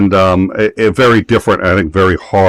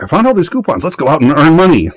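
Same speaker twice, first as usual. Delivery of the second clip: higher-pitched imitation of a wife joking; wife's joke; 8 semitones higher than usual. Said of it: "she uses that joke all the time".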